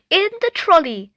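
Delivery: put-on high little girl echo; toddler echo. A narrator's reading. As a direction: copy Mum in a bright small-child voice. Ruby echoing.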